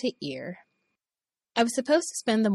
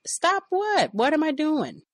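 much higher, teasing innocence; mock innocence; 10 semitones higher, 4 dB louder, slower than usual. Boss taunting the woman, high mock innocence. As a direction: taunt her, playing dumb.

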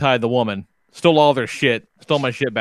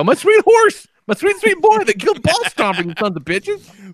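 hammed-up lament; 12 semitones higher than usual. Mourning the horse to his wife, hammed-up wail. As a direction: grieve over the horse like a melodrama. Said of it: "I go".

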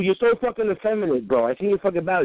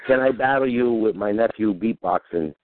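mocking himself; 8 semitones lower, slower than usual. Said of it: "I was like".

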